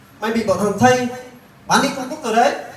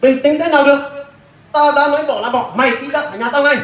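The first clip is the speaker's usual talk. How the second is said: higher, fast angry shouting; 4 semitones higher, faster than usual. Acted. Husband refusing to calm down, yelling at his wife, fast angry shout. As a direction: throw her out in a rage, fast.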